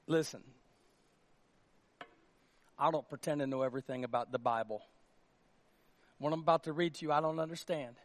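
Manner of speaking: usual speaking voice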